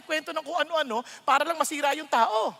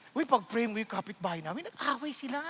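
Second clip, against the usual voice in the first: softer, hushed gossip voice; mock gossip request; 3 semitones lower, 6 dB quieter than usual. Pastor mimicking a gossiping church member, hushed. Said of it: "humingi ng prayer request".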